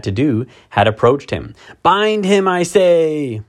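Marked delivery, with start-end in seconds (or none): 1.8-3.4 high, imperious witch's order; commanding witch. A narrator's reading. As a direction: order the hags about like a witch queen. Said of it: "repeated the White Witch".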